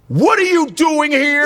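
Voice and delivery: high, drawn-out mock astonishment; high, slow, incredulous question; shocked sister. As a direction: act a sister squealing at catching you out. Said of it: "my sister's like".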